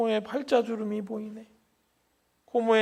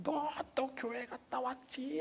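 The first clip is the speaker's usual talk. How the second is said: slow motion; 8 semitones higher, 12 dB quieter than usual. Retold or imitated. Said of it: "슬로우 비디오로 보이는".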